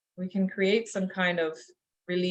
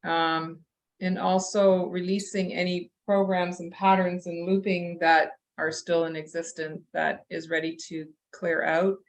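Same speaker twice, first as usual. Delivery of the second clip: talking through a yawn; words stretched by a yawn; yawning while talking. Real, not acted. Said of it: "hard to talk and yawn your head off".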